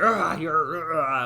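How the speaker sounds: rough sketch of an angry growl; half-voice the angry outburst; sketched anger. Shown as a demonstration. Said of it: "the anger".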